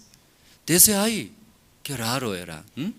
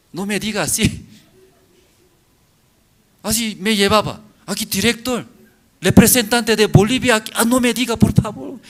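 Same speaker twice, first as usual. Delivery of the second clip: embarrassed pleading; 9 semitones higher, 8 dB louder than usual. Retold or imitated. Retells his own embarrassed pleading.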